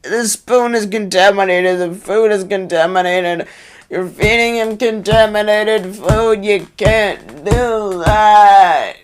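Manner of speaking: over-the-top outraged plea; dramatic overacting. Shown as a demonstration. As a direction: ham up the protest. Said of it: "say it with more emotion".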